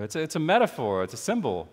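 fast, tossed-off delivery; quick punchline. Retold or imitated. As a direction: rush through it to set up the twist. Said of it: "And he'll go".

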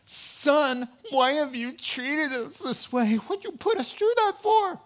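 frantic parent. Retold or imitated. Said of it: "they're out of breath".

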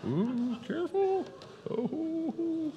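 sudden high gasp of alarm. Real, not acted. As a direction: yelp as the tower wobbles. Jenga tower nearly falls.

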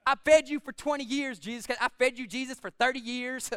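mock motherly guilt trip, punching the first words; indignant mama. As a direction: play a put-out mama, lightly hammed up. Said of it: "Y'all know how mamas get".

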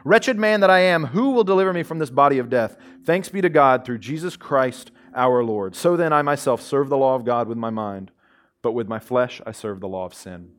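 preacher quoting verse twenty-four aloud; scripture quote. Acted. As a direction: read Paul's lament with rising urgency, then let it fall. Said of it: "he actually says in verse twenty-four".

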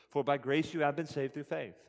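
a stronger reading of "For by grace you have been saved"; building emphasis. Shown as a demonstration. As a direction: lean in harder as the verse goes on. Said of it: "notice the pains he takes to emphasize".

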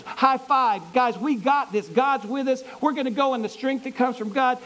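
high, loud pep talk to the troops; rallying cheer. Acted. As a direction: fire up the men before battle. Gideon cheering on his troops.

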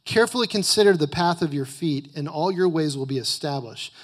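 loud, emphatic scripture reading; preaching. Acted. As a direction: preach the verses with full force. Reads scripture at full force.

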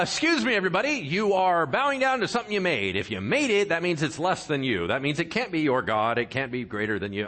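mock-exasperated public announcement. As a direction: call the whole room to attention in disbelief.

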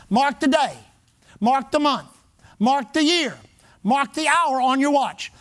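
imitated altar-call list, a pause after each "Mark the" phrase; emphatic revivalist. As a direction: MARK punched at the head of each short command. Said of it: "He'd say it like this".

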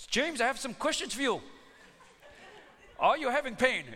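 stately phony physician greeting his patient; put-on doctor voice. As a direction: play a smooth prank-call doctor with a stage accent. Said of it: "this is Doctor Tang".

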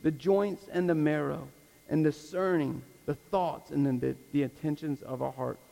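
measured, solemn reading with pauses; scripture reading. Real, not acted. Preacher reads scripture to the congregation in closing, solemn scripture reading. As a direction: read the verse out phrase by phrase, letting it fall at the end.

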